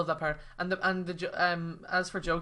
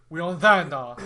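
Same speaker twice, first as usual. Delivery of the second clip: mock Stallone line; 12 dB louder, slower than usual. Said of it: "he's like".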